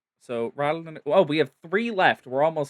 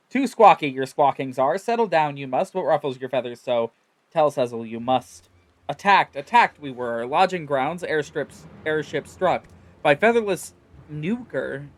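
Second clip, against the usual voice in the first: louder, clipped birdfolk speech; squawky bird-man; 4 dB louder than usual. Acted. Sezzle calming the frightened birdfolk, squawky and louder. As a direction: bark it out like an agitated bird creature. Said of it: "It was all loud squawking".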